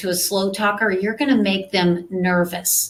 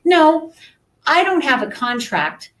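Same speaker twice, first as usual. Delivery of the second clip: higher-pitched acted client; imagined client's reply; 6 semitones higher, 3 dB louder than usual. Coach plays a client answering the contract question, higher voice. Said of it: "So let's say they say".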